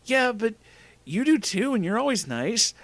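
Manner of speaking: put-on high-pitched girl voice; protesting Pasadena. Girl questioning boy's relationship, high-pitched protest. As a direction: object gently in a high character voice.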